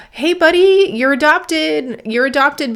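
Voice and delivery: high, gushing good-news voice to a dog; excited shelter worker. Acted. Shelter worker telling a dog it's adopted, high and excited. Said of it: "this very excited human that's happy for them".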